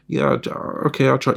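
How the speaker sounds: high, hesitant little voice; nervous girlfriend. Pretend. Girlfriend on the phone, agreeing to trust him, in a high nervous voice. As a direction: answer timidly, unsure.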